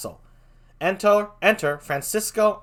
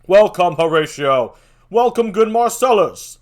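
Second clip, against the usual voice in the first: hearty greeting; 5 semitones higher, 10 dB louder than usual. Acted.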